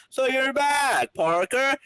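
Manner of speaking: high, slow sneering doctor; a haughty doctor greeting a latecomer; sarcastic doctor. Acted. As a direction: look down on him with mock politeness. Doctor Tompkins voiced sarcastically.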